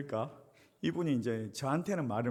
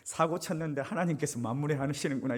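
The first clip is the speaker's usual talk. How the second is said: 1 delighted realization. Retold or imitated. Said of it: "이런 생각이 딱 드는 거예요".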